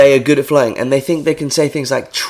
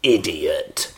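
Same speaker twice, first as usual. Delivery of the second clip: sleazy pub guy. Retold or imitated. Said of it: "lean in in a pub and go".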